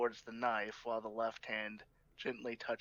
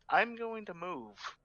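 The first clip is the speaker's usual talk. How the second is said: urgent; 7 semitones higher, 4 dB louder than usual. Real, not acted. Player urgently dodges the knife.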